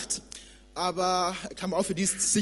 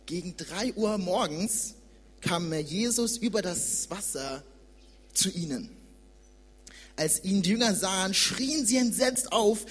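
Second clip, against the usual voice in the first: scripture reading; 2 semitones lower than usual. Acted. Young preacher reads Matthew to church, measured reading. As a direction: read the sea story to the congregation.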